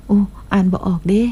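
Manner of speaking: mock-frustrated in Isan dialect; playful Isan dialect. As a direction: drop into a light Isan lilt, joking. Switches to Isan when stuck reading.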